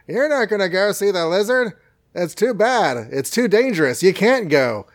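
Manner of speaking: high fretting aunt voice; Aunt May voice. Acted. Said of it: "Aunt May voice".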